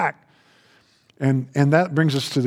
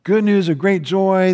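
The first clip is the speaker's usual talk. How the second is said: higher and louder, proclaiming with delight; joyful announcement; 6 semitones higher, 5 dB louder than usual. Shown as a demonstration. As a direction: announce it with real joy. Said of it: "that's just not how that's being delivered".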